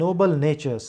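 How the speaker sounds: NOBLE NATURES slowly, with both Ns stressed; stress on N words. Shown as a demonstration. Teacher points out the emphasis to students, stress on NOBLE and NATURES. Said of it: "एन एन में ये जोर पड़ रहा है".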